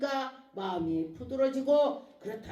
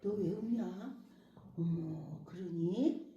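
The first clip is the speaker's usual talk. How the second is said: tender listening; 4 semitones lower, 6 dB quieter, slower than usual. Acted. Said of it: "이러고 들어주세요".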